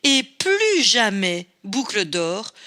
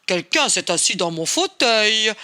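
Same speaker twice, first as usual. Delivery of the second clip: big deep voice. Acted. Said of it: "d'une très grosse voix".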